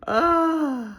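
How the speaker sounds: long, loud, high groan; exasperated groan. Real, not acted. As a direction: let out a drawn-out, high "uh". Frustrated break in her rambling.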